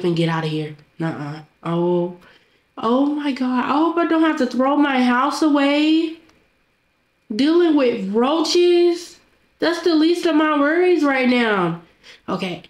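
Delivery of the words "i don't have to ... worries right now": exasperated outburst. Acted. Exasperated outburst about roaches.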